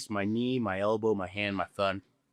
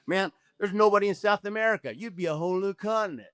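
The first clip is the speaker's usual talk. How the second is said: excited official; 7 semitones higher than usual. Retold or imitated. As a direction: mimic the official's sudden eagerness. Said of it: "He gets all excited".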